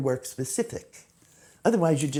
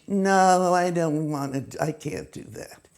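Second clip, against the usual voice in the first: refusing aunt; slower than usual. Retold or imitated. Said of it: "her point of view was".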